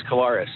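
Collaros said the grandmother's way; family pronunciation. Shown as a demonstration. Quarterback showing how his yaya said it, family pronunciation. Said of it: "we always pronounce it Collaros like that".

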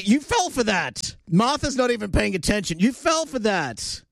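high, drawn-out disbelief; incredulous, pitched well up; incredulous teasing. Real, not acted. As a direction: tease someone for falling for a prank. Host exasperated at fooled producer.

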